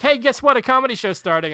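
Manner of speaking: hammed-up announcer calling out to a crowd; mock announcement. Comic announcing the show to an uninterested bar, mock call-out.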